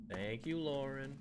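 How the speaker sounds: slow, deliberate sincere thanks; sincere thank you. Shown as a demonstration. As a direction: say each word slowly and gratefully. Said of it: "I gave her a thank you".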